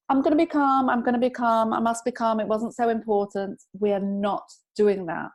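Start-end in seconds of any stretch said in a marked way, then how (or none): 0.1-3.6 forced calm. Shown as a demonstration. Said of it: "we're not gonna say".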